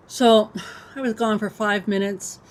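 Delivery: talking while chewing; mouth full. Real, not acted. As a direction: speak around a mouthful of crackers. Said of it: "chomp chomp, sorry about that".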